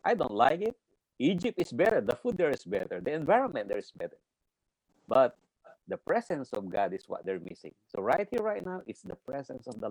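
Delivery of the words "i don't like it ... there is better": complaining Israelites. Retold or imitated. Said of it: "it's like the Israelites".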